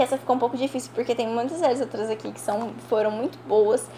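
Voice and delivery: ordinary talk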